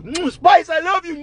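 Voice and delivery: high, gushing declaration of love; hammed-up adoring lover; mock lovestruck man. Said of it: "Man goes".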